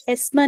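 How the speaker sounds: हिस्मा said as "hesma"; wrong kasra vowel. Shown as a demonstration. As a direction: open the first vowel of हिस्मा to "e". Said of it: "हिस्मा नहीं पढ़ना". (हिस्मा, इ की जगह ए से)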